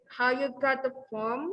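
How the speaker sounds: imitating British English, no R in form; light British accent on "form". Shown as a demonstration. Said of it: "they don't pronounce the letter R".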